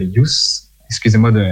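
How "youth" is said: French-accented English. Real, not acted. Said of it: "pour mon accent anglais".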